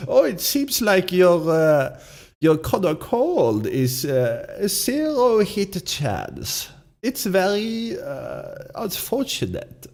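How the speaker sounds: put-on slow, smug German accent; German villain accent. Streamer taunting the opponent as the German villain, German accent. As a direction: gloat slowly like a German movie villain. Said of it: "the voice that I'm doing is this man".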